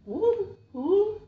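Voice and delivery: high, slow squawking bird. Acted. GM voices bird mimicking.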